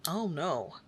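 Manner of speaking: ordinary talk, nothing marked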